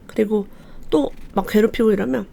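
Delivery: usual speaking voice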